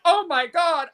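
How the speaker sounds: high-pitched mock whine; mock crying. Mocking people who complain about being canceled, mock crying. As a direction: imitate someone crying in dismay, hammed up. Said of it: "who are crying like".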